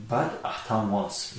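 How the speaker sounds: But Аҳтам wants, drawn out; slow model line. Shown as a demonstration. Teacher stressing the third person s, slow. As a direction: say it slowly so the s on wants is heard. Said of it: "пасванди s дар феъл".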